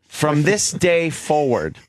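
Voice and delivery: deliberate, declaimed announcement; mock proclamation. Host opening a proclamation about his car, mock proclamation. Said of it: "Ant's making a proclamation".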